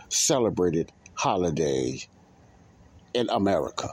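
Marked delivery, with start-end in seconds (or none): 3.1-3.9 "America" set apart and emphasised; stress on America. Real, not acted. Podcast host naming where the holiday is biggest, emphasis on America. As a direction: lean on "America" with a raised, falling pitch. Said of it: "I put emphasis on America".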